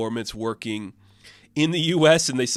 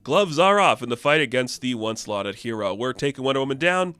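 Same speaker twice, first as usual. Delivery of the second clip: news anchor. Retold or imitated. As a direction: announce it to the folks at home.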